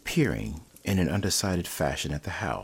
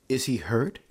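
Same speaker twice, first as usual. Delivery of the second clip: sharp, much higher frightened question; wild demand; 8 semitones higher than usual. A narrator's reading. Mother demanding news of her hurt son, wild and high. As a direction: fling the question out in fear. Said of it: "demanded the mother wildly".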